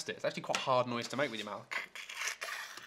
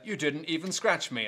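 rat voice; 4 semitones higher than usual. Acted. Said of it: "love your rat voice".

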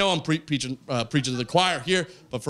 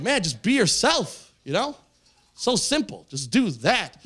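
earnest; 5 semitones higher, slower than usual. Retold or imitated. Epiphany self-talk.

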